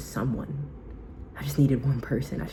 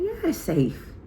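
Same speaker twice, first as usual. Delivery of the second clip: much higher, bright reassuring voice; high reassurance; slower than usual. Retold or imitated. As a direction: promise her eagerly it's safe. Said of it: "I said".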